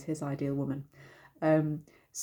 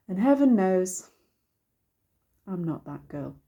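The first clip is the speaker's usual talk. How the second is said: resigned; 3 dB louder than usual. Shown as a demonstration. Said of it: "she's resigned, maybe a bit regretful".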